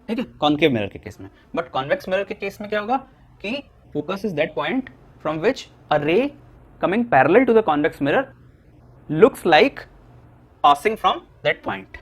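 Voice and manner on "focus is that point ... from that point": very slow, word by word for note-taking; slow teacher dictation of the definition. Shown as a demonstration. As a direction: dictate slowly so students can write. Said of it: "मैं धीरे धीरे बोल रहा हूँ".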